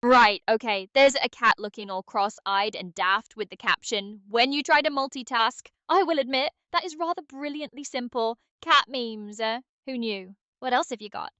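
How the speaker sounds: lightly put-on British accent, cheeky; a hint of a cheery British accent. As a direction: play it as a jokey Brit. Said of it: "can British Aria come out".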